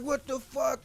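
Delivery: very high cartoon shock; shocked anime heroine. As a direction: gasp it out in disbelief. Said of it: "I was like".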